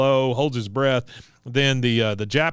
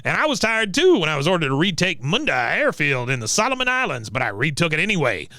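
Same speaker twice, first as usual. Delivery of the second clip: high-pitched war-veteran boast; lightly voiced old veteran, pitched up; Cotton; 4 semitones higher than usual. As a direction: brag like a cranky old soldier. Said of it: "He goes".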